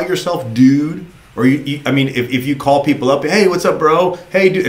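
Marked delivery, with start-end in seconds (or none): 3.2-4.7 casual bro greeting. Retold or imitated. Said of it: "if that's how you talk".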